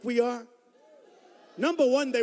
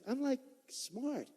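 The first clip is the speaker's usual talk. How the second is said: mock boast; 5 semitones higher, 8 dB quieter, much slower than usual. Sarcastic aside about himself.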